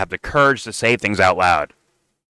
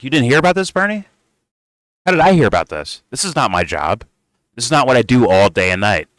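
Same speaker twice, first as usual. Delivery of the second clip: high, incredulous mock voice, louder at first; mocking whine; 4 semitones higher, 4 dB louder than usual. Host mocking a lawmaker's excuse to Bernie, in a high mock whine. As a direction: play him as a put-upon guy who thinks it's not his job.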